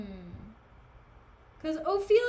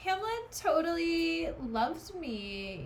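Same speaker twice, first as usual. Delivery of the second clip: slow, higher mock pick-me girl; 4 semitones higher, slower than usual. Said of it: "gives me that kind of vibe".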